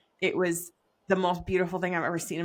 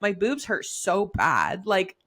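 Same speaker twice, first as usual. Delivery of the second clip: exasperated complaining. Retold or imitated. Griping to friends about first trimester, exasperated. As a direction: moan it all out, overwhelmed. Retelling pregnancy misery.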